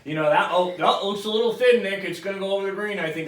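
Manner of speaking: needless pep talk from a caddy; chatty robot caddy. Retold or imitated. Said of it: "I don't need that robot to be like".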